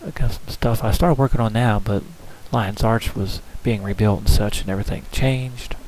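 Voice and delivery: dull muffled mic sound. Real, not acted. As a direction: voice muffled as if through cloth. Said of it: "Apologize if my voice is kinda muffled".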